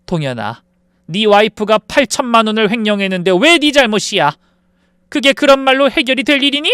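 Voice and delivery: mother scolding her son for defending his wife, exasperated; angry mother. Acted. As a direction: scold the son who won't see it. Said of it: "가슴을 쿵쿵 치며 화를 냈습니다".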